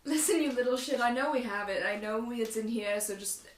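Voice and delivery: loud, forceful in-character outburst; blurted truth. Acted. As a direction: blurt it out loudly, then cut yourself off. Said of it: "blurt out one truth".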